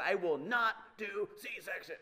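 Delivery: slow, emphatic mock yell; imitating a stubborn refusal, no real shout; retold defiant yell. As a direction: punch out each word in refusal. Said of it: "she yelled at him and said".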